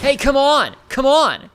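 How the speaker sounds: high desperate yelling; panicking gamer. Real, not acted. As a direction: shout in panic at the screen. Gamer under attack, yelling.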